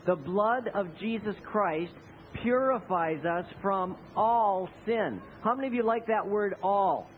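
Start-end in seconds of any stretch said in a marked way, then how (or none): 0.0-5.2 slow group reading of the verse; slow unison recitation. Shown as a demonstration. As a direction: lead the congregation word by word. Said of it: "Will you say that with me?".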